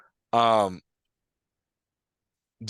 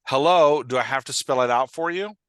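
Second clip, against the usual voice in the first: pointed, impatient challenge with a loud opening word; mildly aggressive, rising into a sarcastic question; loud, exasperated HELLO, then a needling question; more aggressive tone; 3 semitones higher, 6 dB louder than usual. Acted. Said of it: "kind of more aggressive tone".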